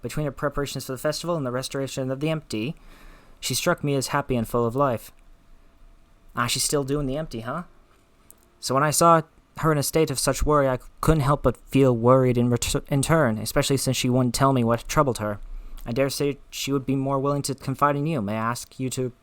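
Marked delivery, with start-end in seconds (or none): 0.0-5.1 put-on a light Scottish accent for Lena. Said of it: "Lena has a Scottish accent". 8.6-19.1 put-on a light Scottish accent for Lena. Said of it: "Lena has a Scottish accent".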